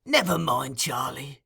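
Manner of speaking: soothing. Acted. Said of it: "said Fagin soothingly".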